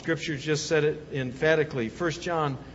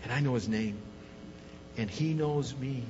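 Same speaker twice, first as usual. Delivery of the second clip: soft closing reflection; 2 semitones lower, 4 dB quieter than usual. Acted. Pastor quietly closing the sermon, softly reassuring. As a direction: bring it down, gentle and intimate.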